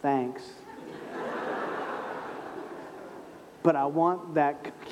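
laughing thanks. Retold or imitated. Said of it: "retold reply".

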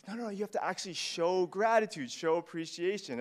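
put-on mildly exasperated parent correcting a kid; parental correction. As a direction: protest it as a coaching parent would. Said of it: "It's like".

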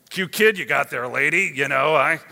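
put-on tough shepherd in a Brooklyn accent; awkward small talk in a Brooklyn accent. Shepherd making small talk to new mother Mary, Brooklyn accent. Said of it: "why they have Brooklyn accent".

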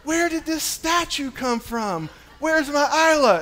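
high, mock-puzzled voice; teasing his statue daughter in mock surprise; silly dad voice. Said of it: "And so I go".

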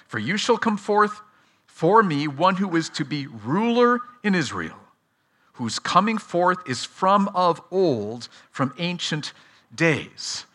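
deliberate scripture reading, phrase by phrase; measured reading for attentive listeners; slow, careful reading. Real, not acted. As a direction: read carefully, pausing between phrases. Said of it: "slowly and carefully".

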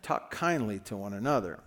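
lightly voiced scolding grandma, low and soft; a hint of a grandma's quiet reproof; grandma mode. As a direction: gently admonish like a grandmother. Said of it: "going into grandma mode".

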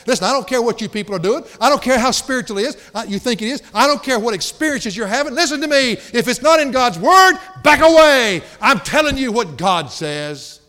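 loud, high shout building to a peak, then slowing; fiery preaching rebuke. Acted. Paul to people trusting their own experiences, shouted fiery rebuke. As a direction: thunder it out, climbing in volume and pitch.

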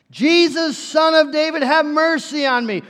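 high, loud urgent plea; frantic desperation. Acted. Desperate beggar pleading with Jesus for mercy, frantic cry. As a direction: cry it out in one desperate run. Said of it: "roaring with frantic desperation".

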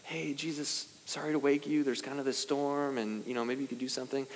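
politely nudging a sleeping friend; mock polite request. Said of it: "it's not like this polite".

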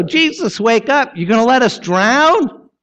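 high, pleading panic; mock-frantic plea, pitched high; panicked disciples. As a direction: cry out to Jesus like drowning men in a storm. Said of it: "Look how badly they go".

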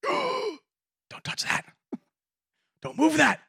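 mock alarmed warning. Church members warning the newcomer off sacred things, high panicked mock warning. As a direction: squeak it out like you're guarding a relic.

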